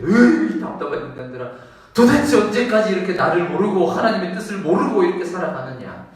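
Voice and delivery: mildly exasperated, groaning sigh. Retold or imitated. Jesus frustrated with unbelieving people, exasperated groan. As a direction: scold them out of frustration. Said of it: "너무 답답해서 그러죠".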